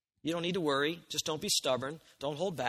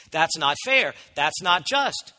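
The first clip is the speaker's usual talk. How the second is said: louder, indignant objection; loud protest; 7 dB louder, slower than usual. Retold or imitated. Preacher voicing the congregation's objection, loud and indignant. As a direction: voice the listeners' outrage. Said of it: "that's exactly what we're thinking".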